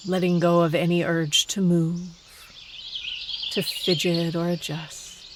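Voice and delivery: calm meditation guide with long pauses between phrases; unhurried, let each phrase settle before the next; guided meditation. Acted. Meditation teacher settling listeners into stillness in the forest, guided meditation.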